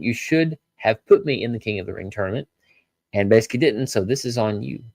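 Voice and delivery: lightly voiced Bron in the speaker's own pitch; mild blame, the fixed wording; quoting Bron, corrected. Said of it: "And Bron said".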